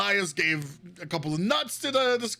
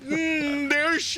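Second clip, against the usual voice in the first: restarting noble voice; 9 semitones higher, much slower than usual. Acted. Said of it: "why am I talking like Elias?".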